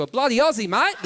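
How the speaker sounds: mock broad Australian; Aussie accent. Someone who stayed in Australia, in broad Aussie. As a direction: lay on a broad Aussie twang. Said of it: "If you stay in Australia".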